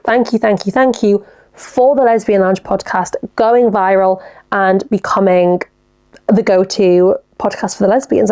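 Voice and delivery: thankful, assured manifesting; grateful manifesting. Shown as a demonstration. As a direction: speak it as if already true. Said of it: "speak it into existence".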